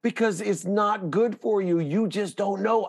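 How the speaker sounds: high, lofty voice of a loving God, easing into apology; God speaking. Acted. God apologizes to his child for the pain, high and lofty. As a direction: speak down as an all-knowing parent.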